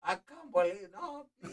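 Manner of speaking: a hint of a teary proud dad; imitating his dad.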